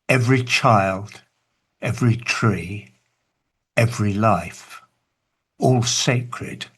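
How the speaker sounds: a spoken lyric, weighty and unhurried; recited poem. Acted. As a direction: read the verses like a heartfelt poem, line by line. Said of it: "This is what I say".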